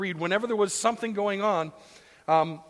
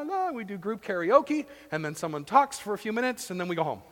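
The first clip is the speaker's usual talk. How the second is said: lower, breezy, hurried rundown; distracted churchgoer; 4 semitones lower, faster than usual. Bored churchgoer rushing through Sunday, casual. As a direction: toss it off like a routine chore.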